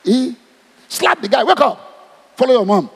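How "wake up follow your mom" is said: commanding call. Acted. Jesus raising widow's son.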